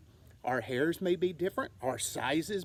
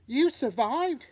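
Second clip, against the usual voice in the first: high, slow, louder amazement; amazed; 7 semitones higher, 5 dB louder than usual. Acted. Young bat stunned her mother survived, amazed. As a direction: savor the disbelief.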